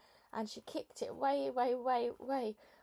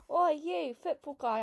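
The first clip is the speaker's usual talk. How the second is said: a high, loud bellow up at the window; 6 semitones higher, 7 dB louder than usual. A narrator's reading. Girl bellowing up at the boy's window, loud and high. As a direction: call up to the window, loud and bold. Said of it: "I bellowed".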